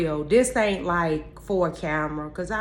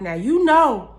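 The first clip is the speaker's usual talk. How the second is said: talking to God; 4 semitones higher, 6 dB louder than usual. Retold or imitated. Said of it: "go right on over to God like".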